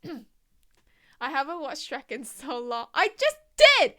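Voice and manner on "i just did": Donkey voice. Retold or imitated.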